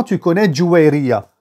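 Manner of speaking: ordinary talk, nothing marked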